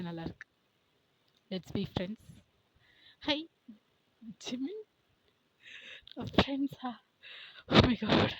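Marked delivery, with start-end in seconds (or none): 3.2-4.8 high, thrilled hello to a star; excited greeting. Acted. Fan meeting a singer, starstruck high greeting. 6.2-8.3 high, loud squeal of disbelief; shocked delight. Acted. Fan hearing the singer wants friendship, squealing disbelief.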